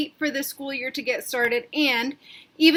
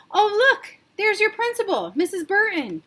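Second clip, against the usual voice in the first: much higher, bright pointing out; cheery dad; 10 semitones higher, 5 dB louder than usual. Acted. Father pointing out the principal to Sarah, higher and cheery. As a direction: sell it to her.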